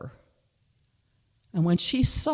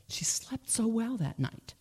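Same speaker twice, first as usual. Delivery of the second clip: soft; 3 semitones higher, 7 dB quieter than usual. A narrator's reading. Relief after forgiving.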